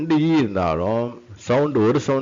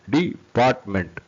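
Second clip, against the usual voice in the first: syllable by syllable. Shown as a demonstration. Teacher splitting word into syllables.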